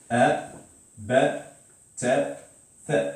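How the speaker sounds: "a, ba, ta, tha" read one by one with pauses; reciting syllables. Shown as a demonstration. Teacher to class, running through the syllables. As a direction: recite each syllable like a drill.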